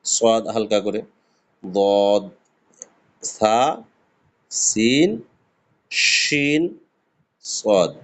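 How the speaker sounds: teacher's recitation of similar letters; Arabic letter sequence demo. Shown as a demonstration. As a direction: contrast সদ, দদ, সা, সিন, শিন. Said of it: "ওর কাছাকাছি মোটামুটি উচ্চারণ সদ".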